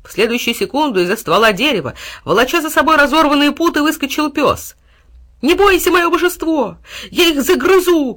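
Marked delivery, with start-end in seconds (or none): 5.4-8.1 high, rallying cry; loud, ringing loyal promise; bold shout. A narrator's reading. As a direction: shout fierce encouragement to your master. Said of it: "крикнул он".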